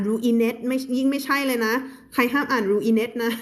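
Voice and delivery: "ruinet" spelled out as roo-ee-net; wrong reading of ruined. Shown as a demonstration. Teacher forbidding this reading, "ruinet" as roo-ee-net. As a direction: say "ruinet" in three syllables ending in "net".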